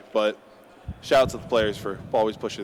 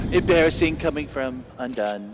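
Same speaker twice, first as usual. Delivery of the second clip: badly faked British accent, a little raised; attempted British accent; 3 semitones higher than usual. Caster mocking Undone as a tier one caster, attempted British accent. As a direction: have another go at a British accent. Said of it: "I can't do a British accent".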